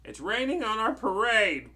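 high, loud storybook wail; theatrical wail. Acted. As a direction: wail it out like a dismayed cartoon witch. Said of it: "one wailed".

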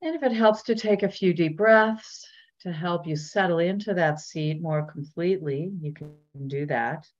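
unhurried body-scan guidance with long pauses; measured meditation teacher voice; guided meditation. Real, not acted. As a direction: gently lead listeners inward, leaving space between phrases.

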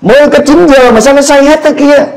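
a hint of scoffers in Acts mocking the believers; mocking onlookers. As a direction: sneer at the drunk-looking crowd. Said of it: "họ nói".

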